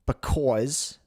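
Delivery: "because" with a rounded New Jersey "aw"; New Jersey accent. Shown as a demonstration. Host retrying the word, New Jersey accent.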